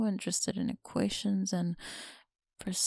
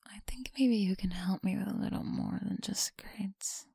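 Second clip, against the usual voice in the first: teasing close whisper; breathy whisper to a listener. Acted. Whispered reassurance.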